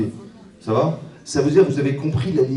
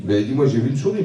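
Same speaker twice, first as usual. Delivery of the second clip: lightly voiced wife, insistent; a hint of the wife defending herself; wife's voice; 2 semitones higher than usual. Wife insisting to her husband about the mouse.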